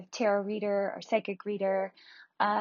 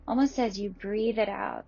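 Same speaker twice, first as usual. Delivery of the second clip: guided meditation. Acted. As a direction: ease them gently into calm.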